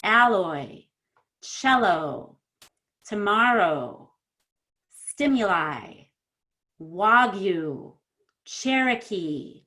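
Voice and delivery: each word slow, its last vowel held and falling; word-list demo with long, full endings; stretched final vowels. Shown as a demonstration. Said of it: "stretch out the E more than you think".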